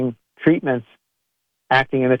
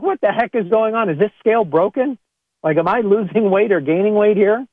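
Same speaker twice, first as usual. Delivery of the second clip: mock exasperation; 7 semitones higher than usual. Frustrated at bathroom scale.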